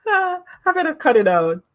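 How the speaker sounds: fast, through laughter; laughing. Real, not acted. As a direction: laugh while saying it. Laughing at own habit.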